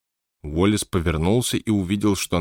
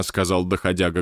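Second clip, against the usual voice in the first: plain reading voice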